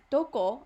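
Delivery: どこ, hit hard as the key word; stress on どこ. Shown as a demonstration. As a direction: punch the word どこ. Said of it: "like, stronger".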